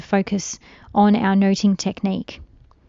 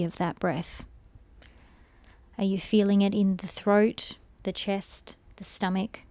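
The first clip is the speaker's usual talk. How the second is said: soft, calm meditation voice with long pauses; unhurried, hushed guidance through breathing; guided meditation; 4 dB quieter than usual. Real, not acted. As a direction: gently guide a listener into stillness, letting phrases trail softly.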